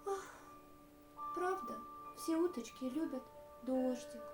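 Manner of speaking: sad duck. Acted. Duck sadly admitting that all ducks love rain, sad sighing. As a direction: sigh it out wistfully, pitch falling. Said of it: "загрустила".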